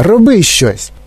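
high, urgent command; cross shout. A narrator's reading. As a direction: cry out, demanding action. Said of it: "крикнула пані Глуп". (сердитий наказовий окрик)

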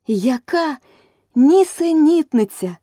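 high, loud, slow outraged cry; at full voice. Acted. Alice protests loudly against the queen's verdict. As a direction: fling it out as loud as you can. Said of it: "на весь голос промовила Аліса".

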